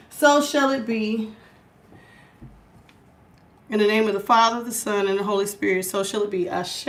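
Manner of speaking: calm, measured invocation; prayer. Acted. Host opening the reading with prayer, calm invocation.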